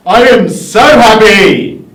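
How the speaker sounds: cheerful and loud; loud and happy. Shown as a demonstration. The speaker showing happy volume to the class. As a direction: call out I am so happy. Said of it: "show us the volume".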